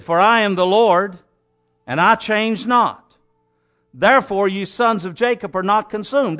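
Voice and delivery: measured, declaiming Bible reading; scripture reading. Acted. Preacher reading God's words to the congregation, declaiming. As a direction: read God's words with weight. Preacher reads Malachi aloud.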